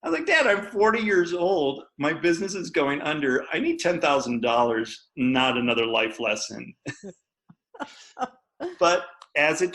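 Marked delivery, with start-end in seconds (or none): 0.3-6.7 mildly exasperated retort, starting high and settling; retold frustration with a lecturing dad; exasperated protest. Retells pleading with his dad.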